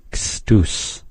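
teacher showing the ending change; changed ending. Shown as a demonstration. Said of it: "Hear that ending change?".

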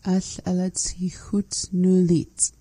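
whispered try at the phrase. Shown as a demonstration. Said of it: "How would you say it?".

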